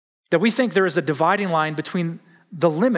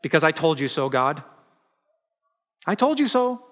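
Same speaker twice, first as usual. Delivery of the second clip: told-you-so Jonah; 3 semitones higher than usual. Retold or imitated. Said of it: "Jonah says".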